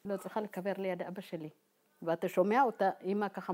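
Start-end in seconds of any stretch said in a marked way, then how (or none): 0.0-1.5 quietly mumbled, half to herself; mumbling. Retold or imitated. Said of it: "ממלמלת". (מלמול שקט וחלש)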